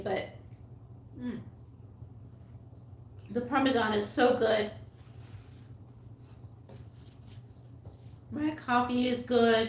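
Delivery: chewing while speaking. Vlogger eating Parmesan on camera, talking to viewers, chewing while talking. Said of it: "Sorry that I'm chewing rudely".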